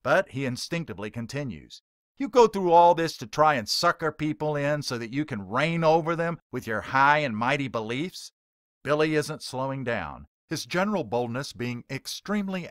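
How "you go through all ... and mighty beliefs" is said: louder, indignant heckler taunting the preacher; hostile heckler. Acted. Heckler taunting a street preacher, loud and scornful. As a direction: push back at him with scorn.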